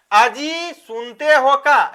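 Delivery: slow, drawn-out call to a husband; पत्नी की पुकार. Shown as a demonstration. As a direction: stretch it out like a wife calling. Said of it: "ऐसा बोलते हैं". (खींचकर पति को पुकारना)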